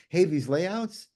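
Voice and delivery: high, slow, very polite imitation; polite Southern gentleman. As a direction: impersonate a kindly colleague gently declining. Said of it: "with the most polite voice".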